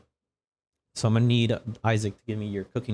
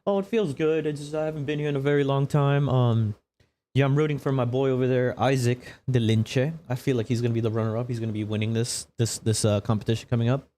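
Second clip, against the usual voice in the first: Kaga Fireburn; 4 semitones higher than usual. Acted. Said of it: "And our reigning champ, Kaga Fireburn".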